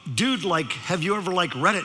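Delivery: mock Valley-dude question, halting on like; Valley teenager. Speaker questions the teen, mock Valley talk. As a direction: lightly imitate Valley-kid hesitancy. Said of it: "decided to use his language".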